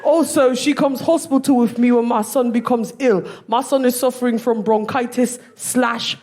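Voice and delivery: put-on London accent, earnest profile read; mock London accent; guessed London accent. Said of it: "guess what his accent is".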